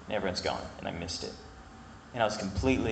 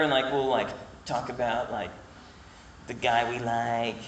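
girl impression; 2 semitones higher than usual. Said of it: "that was my girl impression".

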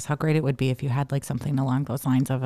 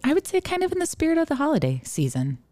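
talking while chewing gum; 12 semitones higher than usual. Real, not acted. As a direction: say it with gum in your mouth. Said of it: "Do you have gum in your mouth".

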